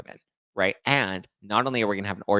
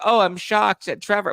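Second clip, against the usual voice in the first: much higher mock gasp of outrage; mock shocked fans; 11 semitones higher, 4 dB louder than usual. Host mocks fans shocked at Trevor, much higher voice. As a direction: overplay the shock. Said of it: "everyone's like".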